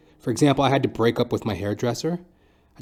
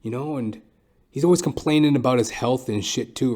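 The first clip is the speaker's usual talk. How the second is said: ordinary delivery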